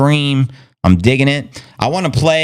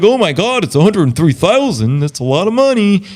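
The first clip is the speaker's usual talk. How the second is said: high, giddy newbie gushing over cheap coins; imitating a starry-eyed beginner, pitched way up; excited crypto newbie; 9 semitones higher than usual.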